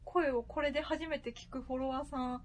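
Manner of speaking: electronically altered voice; voice changer. Real, not acted. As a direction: voice run through a voice changer. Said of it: "ボイスチェンジャー使ってるんでね".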